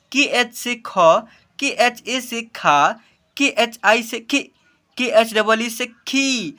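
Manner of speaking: slow chanted spelling, final syllable drawn out; measured classroom chant; spelling drill recitation. Shown as a demonstration. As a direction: recite each spelling slowly, landing on the syllable.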